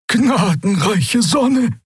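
slow, breathless gasp of awe. Acted. Officer seeing the enemy fleet, gasping out the words. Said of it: "keuchte jemand".

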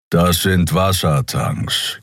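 slow mild growl; a slow, lightly growled correction. Acted. Keru corrects Nelen about the tanks with a mild slow growl. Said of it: "knurrte Keru".

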